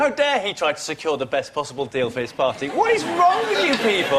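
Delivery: mock outrage building up; escalating comedy rant. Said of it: "sarcastic rant at journalists".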